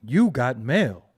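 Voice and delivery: low, slow robotic announcer; AOL mail voice. Retold or imitated. Streamer mocking a slow-internet viewer, low slow robotic voice. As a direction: drag it out like the old email alert.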